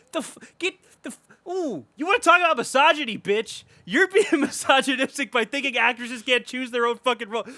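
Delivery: high, sputtering angry rant; getting mad. Real, not acted. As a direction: stammer into a loud, indignant outburst. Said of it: "I'm getting mad".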